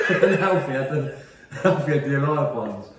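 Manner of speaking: loud, struggling through laughter; laughing. Real, not acted. Dad joking about granddads' names, laughing. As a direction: crack up while finishing the joke.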